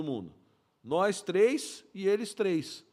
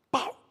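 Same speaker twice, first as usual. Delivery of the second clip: short unpitched vocal bang; quick "pau" sound effect; imitated gunshot. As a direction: mimic one shot fired. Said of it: "ele fazia assim".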